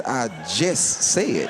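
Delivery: very slow literal deadpan; deadpan reply. Retold or imitated. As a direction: drag it out flat and literal.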